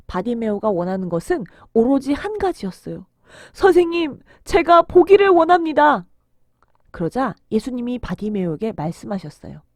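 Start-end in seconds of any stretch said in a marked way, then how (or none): 3.5-6.0 loud, high, heartfelt request; earnest plea. Acted. Blind man asks Jesus for sight, earnest plea. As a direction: beg with all your heart, loudly.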